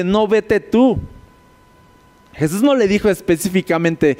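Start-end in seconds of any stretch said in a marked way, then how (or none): 0.0-1.0 defiant retort. Retold or imitated. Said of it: "así de".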